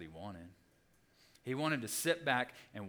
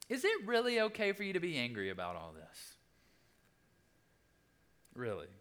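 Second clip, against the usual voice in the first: high-pitched incredulous question; raised-voice, exasperated challenge; pressing disbelief; 5 semitones higher than usual. Acted. God's question repeated, more pressing.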